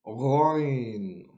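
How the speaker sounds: Ghain said with a strong gargled g; Arabic letter Ghain. Shown as a demonstration. Teacher models Ghain for learners. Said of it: "as in the word go, but ... more emphasis and stronger".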